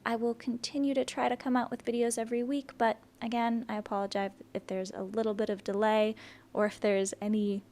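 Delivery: talking through puffy swollen lips. Real, not acted. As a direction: lips swollen from an allergic reaction. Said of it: "My lips are really swollen".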